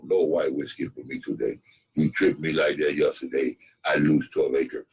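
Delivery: lightly voiced chief. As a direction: talk down calmly to the white man. Plays the chief talking to white man.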